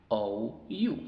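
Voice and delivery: O as "ou", U as "yu"; long vowel names. Shown as a demonstration. Teacher listing long vowels, O and U as their names. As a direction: say O and U as English letter names. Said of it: "Esos son los sonidos largos".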